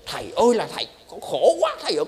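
high, wailing plea to the monk; hammed-up sobbing plea, pitched high; imitating a weeping woman. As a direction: play a distraught wife crying to her teacher. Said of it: "khóc sướt mướt rồi".

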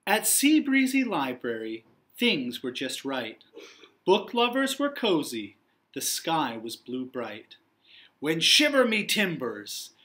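lively read-aloud storytelling voice; story narration. A narrator's reading. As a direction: read it like a storybook for young children. Teacher reads picture book aloud.

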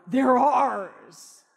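bold declaration. Acted. Confident declaration.

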